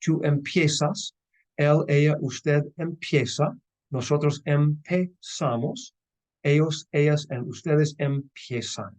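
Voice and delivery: slow, clear teacher drill of empezar forms; slow conjugation drill. Shown as a demonstration. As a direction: spell out each form slowly for the class. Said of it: "let's take a look".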